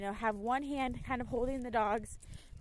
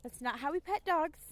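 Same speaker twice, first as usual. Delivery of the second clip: lecturing; 3 semitones higher than usual. Retold or imitated. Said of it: "and I'm like".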